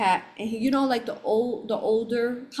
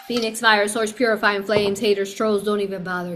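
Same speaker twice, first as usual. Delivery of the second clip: firm protective decree; 6 dB louder than usual. Real, not acted. Declaring protection over the space.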